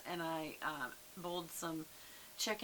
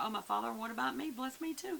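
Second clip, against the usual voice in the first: retold begging, rising high; quicker, climbing plea, acted lightly; mock bitter cry; 5 semitones higher than usual. Esau begging his father for a blessing, mildly acted high plea. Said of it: "let out a loud, bitter cry".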